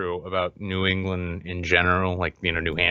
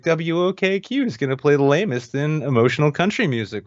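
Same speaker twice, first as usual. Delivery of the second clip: radio DJ; 3 semitones higher than usual. Retold or imitated. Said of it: "It's like".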